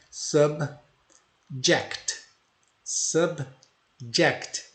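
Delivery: "Subject" said slowly with a "sab" first syllable; "Subject" as "sab-ject"; pronunciation model. Shown as a demonstration. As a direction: repeat "Subject" for the class to copy. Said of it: "Então falem".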